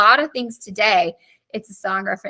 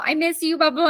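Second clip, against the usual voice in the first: higher-pitched mocking imitation; mock pleading ex; 5 semitones higher than usual. Teacher retelling her ex trying to win her back, mock pleading. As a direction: mimic a sentimental plea dismissively.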